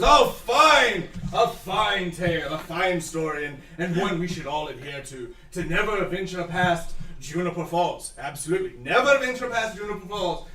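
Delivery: pompous elder praising the tale; a hammed-up solemn elder; an elder lecturing the village children; the speaker in character. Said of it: "Griffin goes".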